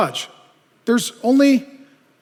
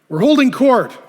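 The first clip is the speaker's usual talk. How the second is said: smug; 5 semitones higher, 7 dB louder than usual. Acted. Self-appointed judges reply.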